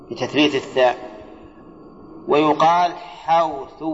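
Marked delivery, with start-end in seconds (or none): 2.9-3.8 slow, drawn-out حوث with a w glide; ya turned to waw. Shown as a demonstration. Teacher shows a dialect variant, y turned to w. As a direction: say حوث as "hawthu", with w for y. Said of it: "بقلب الياء".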